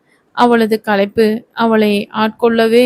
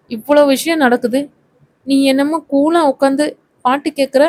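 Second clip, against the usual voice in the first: stern scolding. Acted. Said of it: "கடகடவன முகத்தை வைத்துக்கொண்டு கேட்டாள்".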